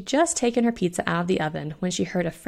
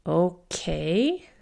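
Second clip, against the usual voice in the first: stammered. Acted. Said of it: "Fiona stammered".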